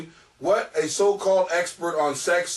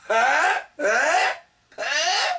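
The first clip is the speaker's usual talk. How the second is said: teasing huh; 9 semitones higher, much slower than usual. Real, not acted. Teasing dog repeatedly.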